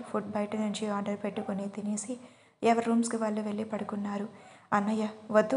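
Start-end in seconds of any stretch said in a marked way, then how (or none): none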